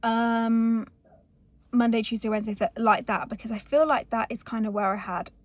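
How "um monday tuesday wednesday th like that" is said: raised voice in a noisy car; louder to carry over the engine; shouting over engine. Real, not acted. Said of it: "can you hear me over the engine".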